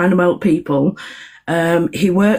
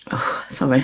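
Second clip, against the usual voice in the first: whispered aside; 4 semitones lower, 5 dB quieter than usual. Real, not acted.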